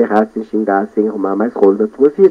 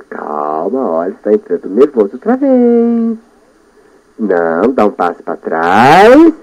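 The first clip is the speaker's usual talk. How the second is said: little inner voice; 3 semitones lower, slower than usual. Pretend. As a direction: speak as the little voice inside his head. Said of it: "aquela meba lá falando". (a vozinha interior pedindo calma, baixinho)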